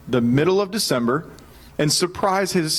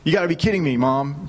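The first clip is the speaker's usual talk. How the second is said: retold frustration. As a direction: imitate a frustrated son protesting. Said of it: "getting so frustrated".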